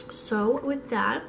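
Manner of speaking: rough, hoarse sick voice; hoarse voice, worn out. Real, not acted. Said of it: "I'm sorry that I sound like a dying goose".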